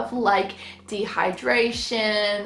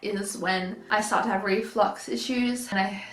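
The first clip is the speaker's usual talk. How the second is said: out of breath. Real, not acted. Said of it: "so out of breath".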